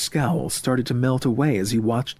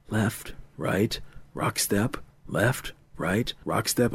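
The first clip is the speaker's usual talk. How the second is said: softer, measured counting with gaps; counting to himself; 2 semitones lower, 5 dB quieter, slower than usual. Acted. Murray counts dance steps in his mind, concentrating. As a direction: count the steps under your breath. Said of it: "He kept counting in his mind".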